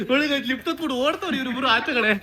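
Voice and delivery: amused commentary through giggles; real laughter in the words; laughing. Real, not acted. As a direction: tell the viewers while cracking up. Laughing at pair fleeing by lift.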